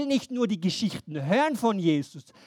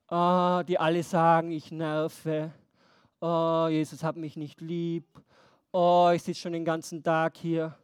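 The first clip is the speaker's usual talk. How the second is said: self-pitying whine; 4 semitones lower than usual. Acted. Imagined self-pitying blind man.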